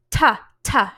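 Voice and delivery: loud, separate "Ta, ta" with puffed T; T-sound demo. Shown as a demonstration. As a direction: burst air out on each "ta". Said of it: "hand in front of your mouth".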